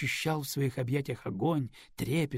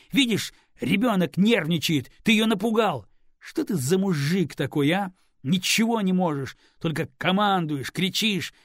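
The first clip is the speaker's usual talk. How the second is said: higher and louder, furious scolding; angry tirade; 6 semitones higher, 7 dB louder than usual. Acted. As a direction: tear into her husband. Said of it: "Лиза рассердилась". (разъярённая отповедь мужу)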